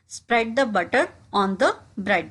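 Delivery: slow, careful drill phrase; slowed classroom demo; slow model repetition. Shown as a demonstration. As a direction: say it slowly for learners to copy. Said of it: "इसको हम English में कहेंगे".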